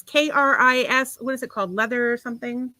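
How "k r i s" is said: K R I S said slowly as single letters; spelled out letter by letter. Shown as a demonstration. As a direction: spell K R I S out, one letter at a time. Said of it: "the new song by a singer".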